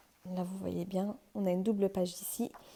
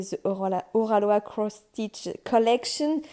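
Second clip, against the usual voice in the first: French-accented English; 3 dB louder than usual. Real, not acted. Vlogger reading the kit's label to viewers, French-accented English. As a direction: read it out carefully with a French accent. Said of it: "mon super accent anglais".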